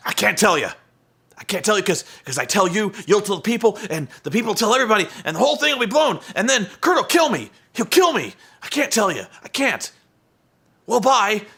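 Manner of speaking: a hammed-up frantic refusal; imitating Eric Young. Mocking Eric Young refusing to tell Taz, high and whiny. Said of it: "Eric's like".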